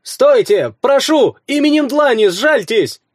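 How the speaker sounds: high, loud desperate plea; pleading woman. A narrator's reading. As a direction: beg for mercy in a woman's voice. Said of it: "картавый женский голос".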